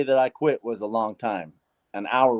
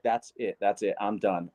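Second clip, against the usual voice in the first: softer, low resolve to himself; quiet vow; 4 semitones lower, 9 dB quieter, slower than usual. Retold or imitated. Putting down his last cigarette, a soft determined vow. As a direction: say it under your breath, decided.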